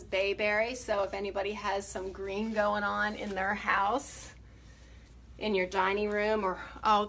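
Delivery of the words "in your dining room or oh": slightly breathless talk; out of breath. Real, not acted. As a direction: speak a bit winded. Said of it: "Sorry, I'm out of breath".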